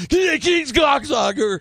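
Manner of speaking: very high, yelled lineup line; hammed-up high-pitched shout; Stephen Baldwin. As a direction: bellow it far too big for a lineup. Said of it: "And Stephen Baldwin comes up".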